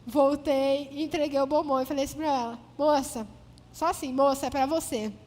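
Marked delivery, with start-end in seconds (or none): 2.8-3.3 dry, clipped "Moça"; curt "Moça, é pra você" to the cashier. Retold or imitated. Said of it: "É bem seca assim". 4.1-5.1 flat, dry "Moça, é pra você"; curt and dry. Retold or imitated. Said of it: "É bem seca assim".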